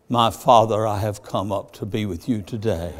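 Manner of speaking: lightly mocking churchy tone; mock solemn address. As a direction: tease Odessa with pompous piety. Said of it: "if Odessa come up and said".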